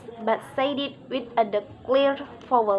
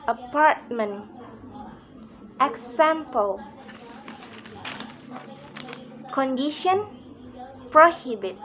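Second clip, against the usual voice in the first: apartment, example, condition, prohibit, each stressed on the second syllable; spaced-out demo of apartment, example, condition, prohibit with second beat strongest. Shown as a demonstration. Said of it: "is on the second syllable".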